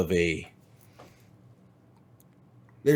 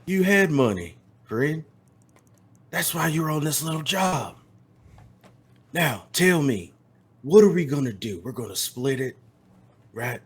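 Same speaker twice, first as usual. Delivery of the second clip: a hint of a menacing cowboy; 4 semitones higher than usual. Tex's slow menacing voice.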